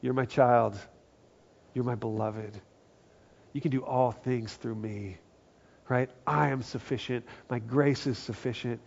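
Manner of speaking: put-on soft, tender voice of God speaking to his child; a lightly voiced, gentle God; tender reassurance. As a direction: reassure gently, like a loving father. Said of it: "God comes in and goes".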